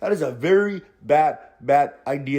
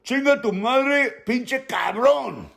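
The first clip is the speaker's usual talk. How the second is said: defiant insult; 6 semitones higher, slower than usual. Retold or imitated. Rata cusses out the boss.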